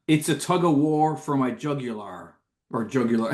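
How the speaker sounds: "jugular" with its last syllable rhyming with "war"; forced rhyme on jugular. Retold or imitated. Host quoting a song lyric, forcing "jugular" to rhyme with "war". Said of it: "rhyme jugular with tug of war".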